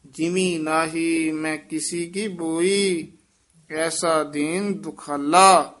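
ਜਿਮੀ said softly and lightly, not with a hard stress; a gentle ਜਿਮੀ at the start of the line; soft pronunciation. Shown as a demonstration. Teacher modelling a soft ਜਿਮੀ for the student. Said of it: "ਜਿਮੀ ਪੋਲਾ ਹੀ ਬੋਲਣਾ ਹੈ".

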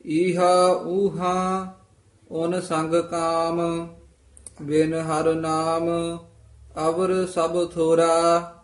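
sustained, chant-like Punjabi scripture reading; scripture recitation. Shown as a demonstration. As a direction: recite phrase by phrase, pausing after each.

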